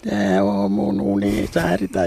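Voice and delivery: a hint of a little girl piping her line; little girl's piping voice. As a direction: kevyesti piipittävä pikkutytön ääni. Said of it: "pienellä tytön äänellä piipitti".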